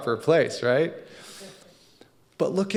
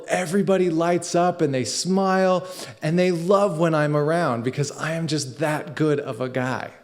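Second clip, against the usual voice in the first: the proudest man in the room, showing off; boastful self-praise; 3 semitones higher than usual. Pretend. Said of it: "I stand up and I say".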